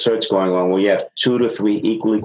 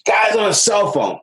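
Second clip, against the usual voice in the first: mock upset supervisor; 11 semitones higher than usual.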